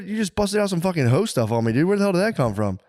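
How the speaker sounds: high mock outrage; high incredulous quote. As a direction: demand it in disbelief. Acted quote to wife.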